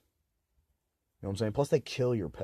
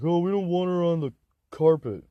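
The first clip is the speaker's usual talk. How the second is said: higher, louder mock parent voice; 7 semitones higher, 5 dB louder than usual. Mocking parents who won't let the cat roam, high mock voice. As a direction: mimic parents' prissy excuse. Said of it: "They're like".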